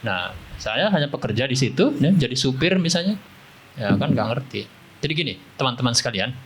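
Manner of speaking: muffled behind a face mask; through a face mask. Real, not acted. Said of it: "pakai masker". (bicara tertutup masker)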